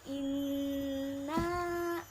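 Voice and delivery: inna with the doubled n pressed and hummed; pressed nasal inna. Shown as a demonstration. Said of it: "harus ditekan dan didengungkan".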